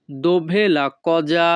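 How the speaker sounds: very slow, each syllable drawn out; slow demo. Shown as a demonstration. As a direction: teach it slowly so learners can follow. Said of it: "Italian ভাষা".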